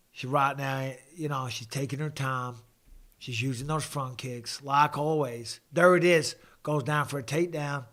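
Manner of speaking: laid-back Southern US commentator; American accent attempt. Shown as a demonstration. Carries on requested Southern American accent.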